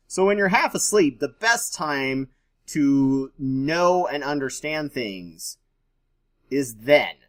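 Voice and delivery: sarcastic. Real, not acted. Mocking advice to study half asleep.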